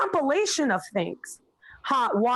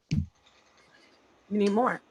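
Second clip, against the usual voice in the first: slow, drawn out; 3 semitones lower, much slower than usual. Shown as a demonstration. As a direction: drag out "more" to drive it home.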